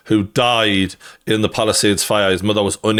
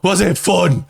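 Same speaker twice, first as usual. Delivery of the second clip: sarcastic mock question; 7 semitones higher than usual. Mocking the dog owner.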